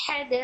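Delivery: हदाइक़ with a long stretched madd and a bounce on the final q; recitation demo. Shown as a demonstration. Teacher demonstrating madd and qalqala to students. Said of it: "strong वाला कलकला हो रहा है".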